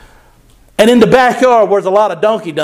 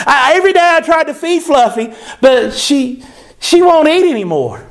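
raised mock-childish voice; little girl Lucy; 5 semitones higher than usual. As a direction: lightly play the fretting little girl. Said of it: "a little girl named Lucy".

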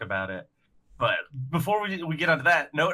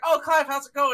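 high, louder mock greeting; 12 semitones higher, 5 dB louder than usual. The host taking Clive's radio call, high put-on greeting. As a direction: answer in a pitched-up put-on voice.

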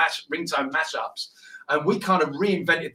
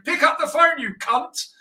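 swearing ringtone; 11 semitones higher, 3 dB louder than usual. Retold or imitated. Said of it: "if your phone's swearing at you saying".

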